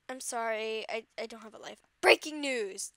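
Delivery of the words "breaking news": a lightly voiced Sir Gilbert announcer; calm newsreader take, close to own voice. Fan reading news to viewers in a light Sir Gilbert voice. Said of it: "let me use my Sir Gilbert voice".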